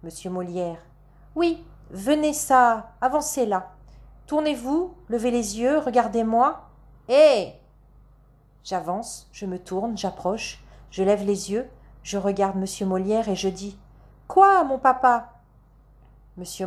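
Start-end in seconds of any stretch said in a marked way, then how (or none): 1.4-7.5 high, commanding stage father. Acted. Molière acts the stern father. 14.3-15.3 high, drawn-out stage question; very loud reply. A narrator's reading. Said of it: "Je dis ce quoi si fort".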